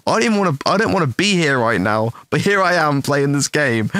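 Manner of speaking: lightly hammed-up complaint about being forced; mock indignant rant. Complaining to the boys about the scary game, mock rant. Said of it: "And I said to him".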